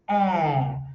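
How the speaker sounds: "é" said as a long English æ, as in Batman; English æ vowel. Shown as a demonstration. Teacher contrasts it with Portuguese é, English æ vowel. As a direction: draw "é" out wide into the æ of Batman. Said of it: "ele faz um".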